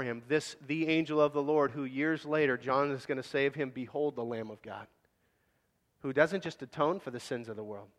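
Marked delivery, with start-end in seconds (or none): 3.7-4.9 much softer and lower, reverent hush; hushed behold. Shown as a demonstration. Preacher quoting John to the congregation, hushed and reverent. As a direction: breathe it like a sacred secret. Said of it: "when he said".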